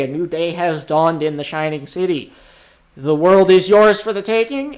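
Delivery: grand scene-setting voice; game master narration. Acted. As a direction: open the day like a storyteller.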